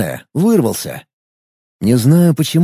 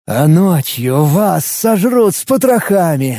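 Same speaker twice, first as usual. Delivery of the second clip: slow, sly and nasty; sly evil voice; 3 semitones higher, slower than usual. Acted. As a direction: gloat like a cunning villain. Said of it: "голос меняется на хитрый, злой и противный".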